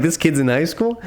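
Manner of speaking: high-pitched, amused mock quote; high mock imitation. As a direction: tease by parroting his line. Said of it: "And you're like".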